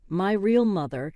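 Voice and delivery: My real mother, every word hit hard and separate; each word emphasized. Acted. Stepdaughter correcting stepmom, each word pressed hard. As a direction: lean on each word like a weapon. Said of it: "emphasizing each word like a weapon".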